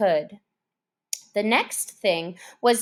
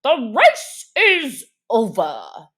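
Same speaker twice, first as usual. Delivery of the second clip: slow, louder announcement; called out; 3 semitones higher, 8 dB louder, slower than usual. A narrator's reading. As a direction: call it out to the whole party. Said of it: "suddenly called out".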